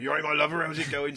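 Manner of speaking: a quick, cheery West Country impression; West Country accent. Giving a West Country farmer accent as an example in a chat about accents. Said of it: "your Cornish".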